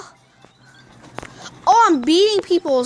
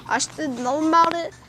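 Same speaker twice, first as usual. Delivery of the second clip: put-on voice; 2 semitones higher than usual. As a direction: push the voice up and keep it there. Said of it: "this voice for a whole minute".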